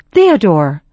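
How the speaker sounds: a sharp call of alarm; crying out. Acted. Mother cries out to father as horses stumble, alarmed call. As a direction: call the husband's name in alarm. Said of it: "cried out".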